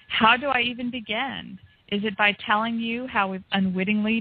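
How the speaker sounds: rhythmic wordplay recitation; Cullen's cadence. Retold or imitated. Host reading a guest's article like him, rhythmic recitation. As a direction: lean on the rhymes, phrase by phrase with pauses. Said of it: "trying to read it like you were".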